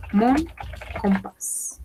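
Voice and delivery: "mon", a pause, then "compás"; word by word. Shown as a demonstration. Teacher models French for learners, word by word.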